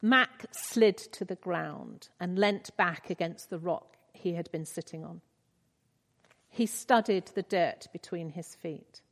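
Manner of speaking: measured, earnest reading of a novel passage; gentle read-aloud storytelling; story reading. Acted. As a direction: read it like a moving story to the congregation.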